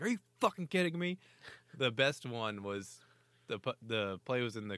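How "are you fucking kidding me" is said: much higher indignant yell; mock outrage. Player tumbling into the boards, mock furious. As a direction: play the player who just hit the boards. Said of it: "He's like".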